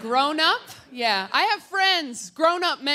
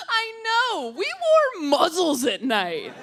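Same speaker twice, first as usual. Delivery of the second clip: strained breaking laugh; 5 semitones higher, slower than usual. Acted. Cheerful traumatized confession.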